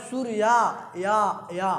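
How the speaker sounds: सूर्या with a long last syllable, then या repeated; अंतिम आ पर ज़ोर. Shown as a demonstration. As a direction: hold the end of सूर्या, echo it as या. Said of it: "ये आ, आ जा रहा है". (सूर्या के अंत का या खींचकर दोहराना)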